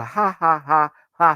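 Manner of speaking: loud, separate mock guffaws; demonstrated big laugh. Shown as a demonstration. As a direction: punch out each fake laugh loudly. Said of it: "I did not go".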